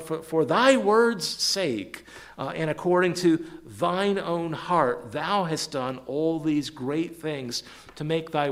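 slow, emphatic scripture reading. Acted. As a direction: proclaim the verse with measured weight. Reads scripture aloud with emphasis.

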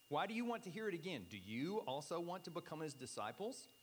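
mildly sarcastic, pointed question. Acted. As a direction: needle them with a mock-innocent question. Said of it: "there's some sarcasm involved in this".

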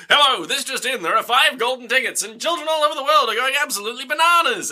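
high-pitched, hammed-up news bulletin; newsreader. Newsreader reporting the golden ticket craze, hammed-up urgency. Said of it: "There's a news story".

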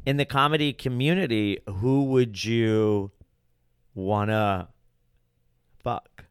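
slowing, with long pauses before the last words; suspenseful retold question. Retold loaded question, drawn out.

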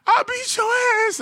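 very high, loud mocking threat; mock tough guy. Mocking the coworker's threat, high and loud. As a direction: make his threat sound ridiculous. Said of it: "And he's like".

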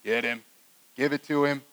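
low, hushed urging; egging on. Acted. Onlookers egging on the master, low hushed urging. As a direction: urge it under your breath, relishing the payback. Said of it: "we're like".

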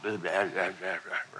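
a muffled crowd murmur in the background; low complaining drone; background grumbling. Shown as a demonstration. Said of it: "it's like the backdrop of his life".

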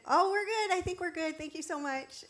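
politely wriggle out of a chat; light brush-off. Acted. Shopper avoiding getting stuck talking, light high polite brush-off. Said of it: "trying to quickly make very light, very short chat".

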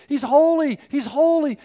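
loud, high insistence on holy; emphatic declaration. Acted. Preacher to congregation, declaring holy loudly.

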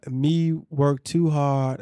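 slow attempt at a Jamaican accent; Jamaican patois. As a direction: read it slowly in mock Jamaican patois. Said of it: "It's spelt in accent".

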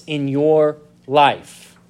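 slow down and lean on "your"; "your" drawn out and set apart; stress on "your". Real, not acted. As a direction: give "your" deliberate weight before the last word. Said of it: "I emphasize that word "your".

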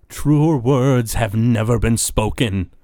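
slow, emphatic pronouncement; Zalaman the Wretched. Acted. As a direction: declare it slowly and grandly in character. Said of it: "Zalaman the Wretched says".

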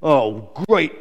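put-out, moaned complaint; moaning. Acted. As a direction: groan it in weary complaint. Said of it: "moaned Glen".

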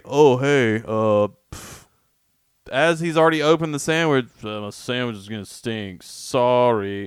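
sheepish, half-hearted apology voice; a limp, unbothered "sorry"; mocking sandwich guy. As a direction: imitate the careless passenger making an excuse. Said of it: "to just be like".

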